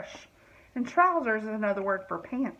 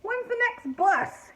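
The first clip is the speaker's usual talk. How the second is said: grunting monkey; 11 semitones higher, slower than usual. A narrator's reading. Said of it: "he grunted".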